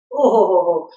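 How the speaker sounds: a real choked sob of emotion; overcome, sobbing at the memory; emotional sob. Real, not acted. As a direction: break into tearful sobbing. Overcome recalling Swami's feet.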